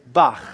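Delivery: "bach" ending in a throaty Hebrew kaf sound; guttural ending. Shown as a demonstration. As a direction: finish "bach" with friction at the back of the throat. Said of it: "which has the sound of ch".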